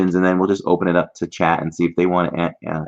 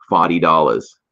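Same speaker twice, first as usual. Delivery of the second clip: Boston accent; 4 dB louder than usual. Shown as a demonstration. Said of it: "it would be".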